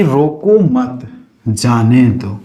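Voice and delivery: slow, emphatic "रोको मत", pause, "जाने दो"; drawn-out demo phrase. Shown as a demonstration. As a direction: stretch "रोको मत" slowly, then "जाने दो". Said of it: "अब ध्यान दो".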